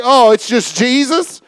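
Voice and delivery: "Oh, it's just Jesus" tossed off lightly, no weight on "Jesus"; bored, casual. Shown as a demonstration. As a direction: shrug it off as ordinary. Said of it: "I don't want to get to that place where it's like".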